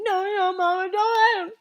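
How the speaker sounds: high, garbled panic; muffled, frantic begging; mumbling. Acted. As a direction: mumble the plea with lips stuck.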